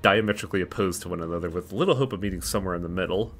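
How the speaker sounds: measured, slightly softened read-aloud voice; story narration. A narrator's reading. Reading the sinners' story aloud to viewers, story narration. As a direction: narrate the story text evenly.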